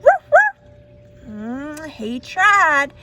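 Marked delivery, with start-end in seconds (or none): 0.0-0.6 high loud yap; storyteller asking the kids to bark; dog bark. Acted. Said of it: "could say".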